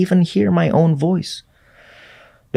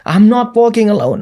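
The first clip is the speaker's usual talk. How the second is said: shouted prayer; 5 semitones higher, 4 dB louder than usual. Retold or imitated. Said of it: "Aku teriak seperti itu".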